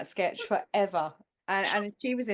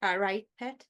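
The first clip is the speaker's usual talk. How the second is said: northern accent. Shown as a demonstration. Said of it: "that's a northern phrase".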